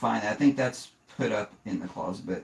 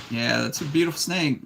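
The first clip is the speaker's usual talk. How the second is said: higher, sugary mock praise that means "that's not a hog"; fake-sweet compliment, bless-your-heart style; polite put-down; 5 semitones higher than usual. Quoting a shop's owner, a hint of a bless-your-heart compliment. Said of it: "It's like the southern, "Oh, bless your heart" thing".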